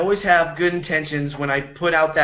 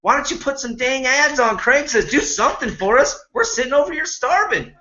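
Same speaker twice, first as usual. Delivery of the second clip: mock complaining to the dealer; 5 semitones higher than usual. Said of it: "we complained at the dealer".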